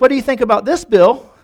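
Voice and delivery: acted-out challenge; mock taunt. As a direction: taunt him, building to the name. Biker taunts Bill in story.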